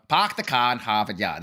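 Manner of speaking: put-on low r-dropping Boston accent; dad's Boston accent. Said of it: "That's my dad".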